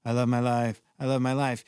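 low, uninvested recital; going through the motions; unfelt affirmation. Shown as a demonstration. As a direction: say it without feeling it in your body. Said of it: "if you just sit there and say".

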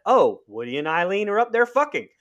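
mock excited gossip; lightly voiced, as if the character blurts it; mock character guess. Podcaster mimics the character guessing, a touch mock. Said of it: "her first instinct is to assume that".

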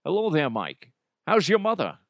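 lightly voiced celebrity impression; a hint of mock Scottish suaveness; Connery. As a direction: greet him as a sly imitation film star. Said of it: "then he could be like".

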